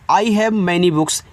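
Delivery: slow and clear example; slow model sentence. Shown as a demonstration. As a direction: model it word by word. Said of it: "आप कह सकते हो". (धीमा उदाहरण वाक्य)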